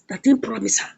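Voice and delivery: plain reading voice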